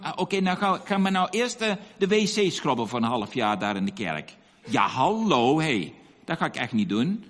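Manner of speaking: mock grumbling refusal; complaining. Churchgoer balking at scrubbing the church toilets, complaining. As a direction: grumble like an indignant, put-upon church volunteer. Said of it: "niet zitten klagen van".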